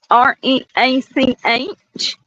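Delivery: R E A C H spelled out slow; spelled out letters. Shown as a demonstration. Spelling the word to a friend, letter by letter. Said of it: "like the word you say".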